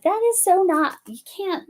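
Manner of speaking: high-pitched scolding of oneself; retold protest. Reacting to own accent joke, retold protest. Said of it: "But I'm like".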